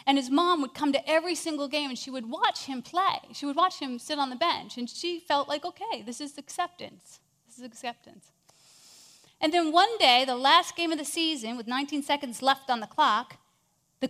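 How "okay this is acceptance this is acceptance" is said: soft, resigned murmur, sinking softer; a mother quietly making peace with it; hushed and resigned; quiet resignation. Retold or imitated. Mom resigning herself on the bench.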